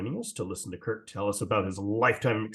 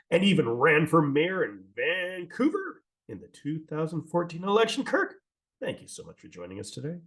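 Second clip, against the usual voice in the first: short of breath at the intro; breathless after a long intro; 5 semitones higher than usual. Real, not acted. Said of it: "Chris, you're out of breath already".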